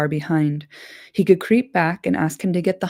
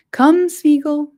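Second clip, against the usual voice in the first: urgent call; 9 semitones higher, 7 dB louder, slower than usual. Acted. Frodo calls urgently.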